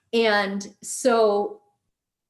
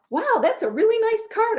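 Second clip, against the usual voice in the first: much higher and louder, gushing over the card; mock gushing; 6 dB louder than usual. Picking up the rejected card for the embarrassed guy, gushing loudly. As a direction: overdo the praise to ease his embarrassment. Covering for friend's rejection, overly bright.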